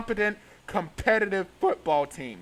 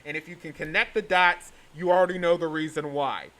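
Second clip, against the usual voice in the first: paper bag over head; 4 semitones lower than usual. Real, not acted. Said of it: "I'm wearing a paper bag over my head".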